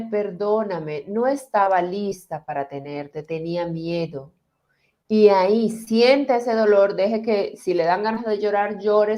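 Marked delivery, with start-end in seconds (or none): 0.0-4.3 tender apology. Shown as a demonstration. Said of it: "mire a ese bebé y dígale".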